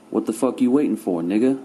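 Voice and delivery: loud, high angry yell. Acted. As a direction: yell at him to move. Papa yells at Malcolm.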